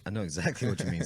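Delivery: words caught on swallowed beer; choking on a drink. Real, not acted. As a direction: speak through a choke. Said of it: "Sorry, I choked on swallowing my beer".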